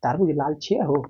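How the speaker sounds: Khagaria-style Bihari lilt; light Bihari regional speech; Bihar dialect. Retold or imitated. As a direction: say it as Bihar locals do. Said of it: "Bihar में जैसे बोलते हैं हम लोग".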